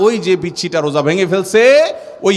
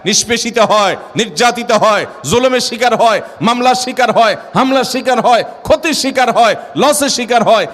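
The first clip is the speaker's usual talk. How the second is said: higher list building to a shout; building preacher's cry; 4 semitones higher than usual. Acted. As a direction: climb each line until you cry out. Sermon list rising to shout.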